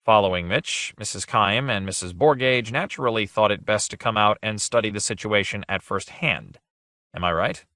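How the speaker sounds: smooth, unhurried and easy; calm polished charm; suave tones. Acted. Ridolf smoothing things over with the ladies, suave. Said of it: "in his suavest tones".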